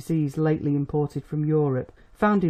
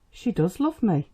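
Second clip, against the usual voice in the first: put-on earnest young love; 4 semitones higher than usual. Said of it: "in a tone which suddenly brought back".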